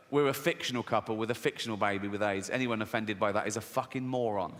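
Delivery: low, even explaining voice; husband reasoning. Acted. Jeff explains to his wife, low and matter-of-fact. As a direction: drop low and deliver it deadpan. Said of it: "And Jeff goes".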